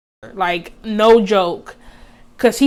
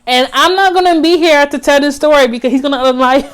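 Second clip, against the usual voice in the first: rising panic; 5 semitones higher, 6 dB louder, faster than usual. Real, not acted. Scared outburst about dying.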